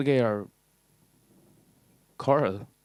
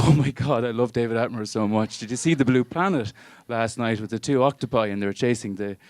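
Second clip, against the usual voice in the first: gushing fan; 2 semitones higher, 4 dB louder than usual. Retold or imitated. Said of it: "And they go".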